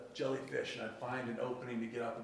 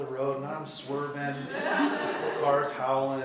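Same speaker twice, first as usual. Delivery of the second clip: light laughter through the words; amused, laughing delivery; 3 semitones higher, 4 dB louder, slower than usual. Real, not acted. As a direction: chuckle while telling it. Laughing recalling the wild drive.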